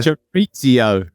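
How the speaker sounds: slow, drawn-out Aussie CHORIZO; hammed-up Australian pronunciation; broad Australian accent. Shown as a demonstration. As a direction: exaggerate an Australian "chorizo", stretching the vowels. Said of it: "some people that pronounce it like this".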